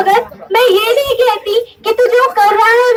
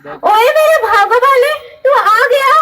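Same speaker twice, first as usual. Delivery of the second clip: tearful joy; 4 semitones higher than usual. Acted. Mother sees returning son.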